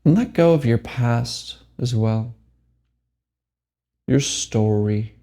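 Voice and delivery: measured meditation guide with long pauses; unhurried phrases, each left to settle; guided meditation. Acted. Meditation teacher guides listeners to let go, guided meditation.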